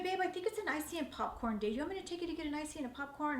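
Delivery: soft, sweet suggestion; husband quietly suggesting an outing; tender offer. Retold or imitated. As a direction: gently tempt her with a treat.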